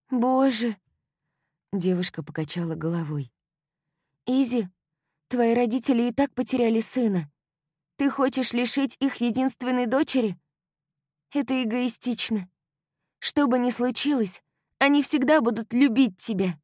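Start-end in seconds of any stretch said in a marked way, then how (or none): 0.1-0.8 high, loud gasp of dismay; horrified at the news; alarmed young woman; shocked girlfriend. A narrator's reading. Kylie shocked. 4.2-16.6 high, earnest reproachful friend; stern young woman pleading; scolding girlfriend. A narrator's reading. Kylie scolding.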